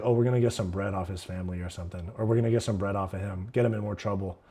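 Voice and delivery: low, soft, fast scheming dad voice; lightly voiced conniving father. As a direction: mutter it like a greedy dad plotting. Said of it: "his dad was probably like".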